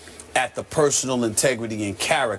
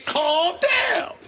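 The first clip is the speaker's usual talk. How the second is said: shouted calm down. Retold or imitated. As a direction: call it out like calming a rival. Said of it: "that's me right here saying".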